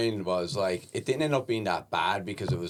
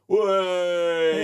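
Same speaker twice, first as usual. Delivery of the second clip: put-on loud, high drunken whoop; drunk yell; 11 semitones higher, 8 dB louder than usual. Drunk woman in the back row yelling at the comic, loud whoop. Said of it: "They'd just be like".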